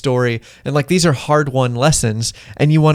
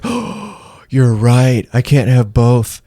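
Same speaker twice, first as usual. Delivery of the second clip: put-on kid giving in; much slower than usual. Kid agreeing with mom at candy store, mock childish. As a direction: play the child realizing he must choose. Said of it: "And the kid's like".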